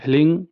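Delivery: "हलिंग" as hling, nasal ng ending; model pronunciation. Shown as a demonstration. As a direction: model "हलिंग" for learners, h joined to l. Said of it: "ऐसे ही करें". ("हलिंग" का उच्चारण "ह्लिंग")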